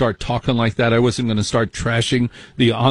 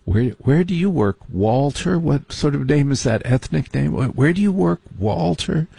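mock snob grilling; 4 semitones higher than usual. Snobby guest grilling Walter.

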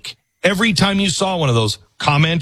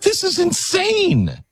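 high, mock-astonished squeal; high mock outrage at free refills; mock disbelief; slower than usual. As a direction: squeal it like a stunned tourist. Mocking the Italian's disbelief.

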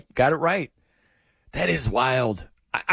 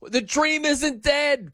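ecstatic fan shout; 10 semitones higher, slower than usual. Retold or imitated. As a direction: shout it like fans who just saw the equalizer. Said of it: "crying tears".

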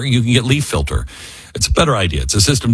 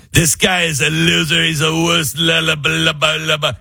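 mock dismissive rant; 5 semitones higher than usual. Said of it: "You can go".

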